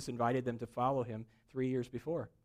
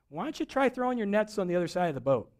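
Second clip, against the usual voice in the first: higher, louder call across water; raised, carrying voice; 6 semitones higher, 5 dB louder than usual. Retold or imitated. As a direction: shout a friendly suggestion over to a boat. Figure calls from shore to boat.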